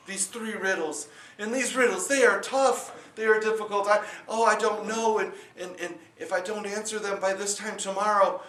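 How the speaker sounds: high, fretful, babbling worry; a father wringing his hands over trouble; panicked father. Acted. Panicked father tells daughter.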